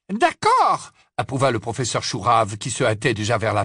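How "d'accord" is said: high, loud determined witch; firm witch voice. Acted. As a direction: say it firmly, resolved. Sprout voiced.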